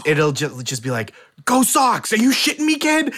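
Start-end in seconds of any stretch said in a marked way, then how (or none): 1.4-3.1 put-on Boston accent. Boston-born speaker abroad, cheering in a thick Boston accent. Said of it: "an accent stronger than I've ever had".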